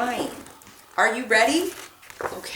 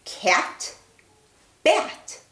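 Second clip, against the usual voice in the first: bat much higher than cat; rhyme modelled; 5 semitones higher than usual. Shown as a demonstration. Teacher modelling cat and bat, sing-song. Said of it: "Let's say them".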